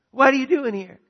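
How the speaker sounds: high, loud burst of surprise; surprised twin. Acted. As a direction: blurt it at an unexpected visitor. Same surprised question, acted again.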